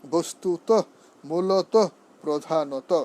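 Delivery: "বস্তুত", "মূলত", "প্রধানত" each ending on a sounded o; rounded final o. Shown as a demonstration. Teacher drilling endings, "বস্তুত", "মূলত", "প্রধানত" with final o. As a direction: give "মূলত" a full rounded last vowel. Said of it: "ঔকারান্ত".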